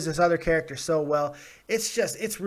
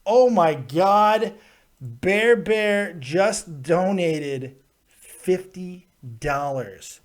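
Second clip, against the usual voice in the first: amazed; much slower than usual. Real, not acted. Shocked by donation.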